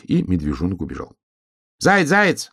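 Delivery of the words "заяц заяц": high-pitched hedgehog shout; raised, urgent storybook call. A narrator's reading. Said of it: "закричал ёжик".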